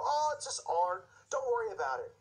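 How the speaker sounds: preacher mocking people who shrug it off; mock dismissive. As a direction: imitate people waving it away. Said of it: "people go".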